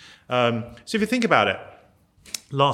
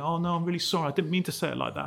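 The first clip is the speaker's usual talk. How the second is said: mock apology; 3 semitones higher, 4 dB quieter, faster than usual. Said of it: "you retreat and you go".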